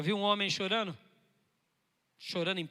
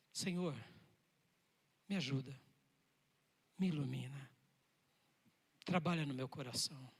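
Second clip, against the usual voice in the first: quiet prayer; 5 semitones lower, 6 dB quieter than usual. Acted. Acted morning prayer to God.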